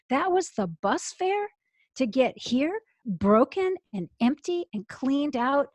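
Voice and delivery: can't believe what she is hearing; incredulous at God. Retold or imitated. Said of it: "I'm here talking to God".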